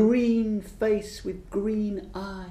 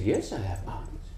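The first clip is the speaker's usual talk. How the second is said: much lower, softer answer; low small reply; 11 semitones lower, 7 dB quieter than usual. Acted. Old witch answering the green man, low and soft. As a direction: drop low and quiet.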